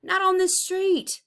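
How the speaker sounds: sharp high cry of protest; cried out. A narrator's reading. Tyree cries out at the troublemakers, high and loud. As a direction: cry out to stop them. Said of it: "cried Tyree".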